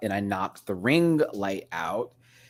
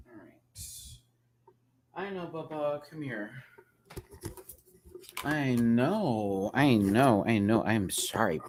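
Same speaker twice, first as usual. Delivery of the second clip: soothing pet; slower than usual. Real, not acted. Soothing the wet cat.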